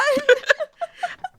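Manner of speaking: high shrieking giggle; squealing laugh. Real, not acted.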